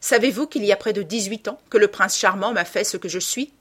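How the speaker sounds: high, loud, aggrieved woman; resentful woman's outburst; bitter bar woman, scornful. Acted.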